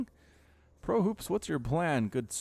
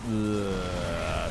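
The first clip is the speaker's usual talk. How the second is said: pained groan; 6 semitones lower than usual. Real, not acted. Groaning at the dead probes.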